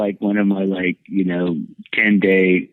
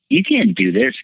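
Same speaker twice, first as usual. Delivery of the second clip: much higher, mock indignant cry; retold protest; 11 semitones higher than usual. Refusing the men taking him away, high mock protest. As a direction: throw up a high, hammed-up objection. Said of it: "I'm like".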